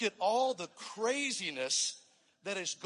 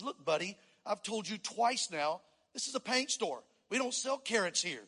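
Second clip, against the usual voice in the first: a fed-up store owner losing patience; mildly frustrated. Acted. Paint store owner scolding the rabbit, mildly exasperated. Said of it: "the owner of the paint store got a little frustrated".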